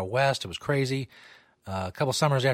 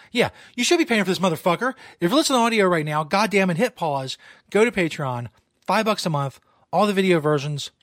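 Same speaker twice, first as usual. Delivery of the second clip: mock hard sell; 6 semitones higher, 4 dB louder than usual.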